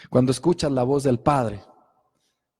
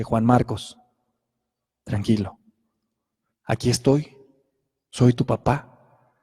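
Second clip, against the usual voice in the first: put-on calming a child; 4 semitones lower than usual. Father calming his locked-in son through the door, lower and soothing. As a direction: gently reassure a frightened little boy. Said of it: "Le empecé a hablar a mi hijo y le dije".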